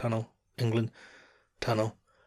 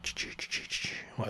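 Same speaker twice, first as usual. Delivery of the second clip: soft unvoiced train chugging ch-ch-ch; choo-choo sound; 9 dB quieter than usual. Shown as a demonstration. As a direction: puff out a steam train chug. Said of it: "It's not a choo-, it's not a steam train".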